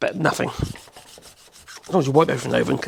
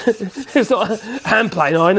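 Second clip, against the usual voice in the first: says it through a real laugh; chuckling while he explains, a bit slower; 4 semitones higher than usual. Real, not acted. Laughing at the plane iron comparison.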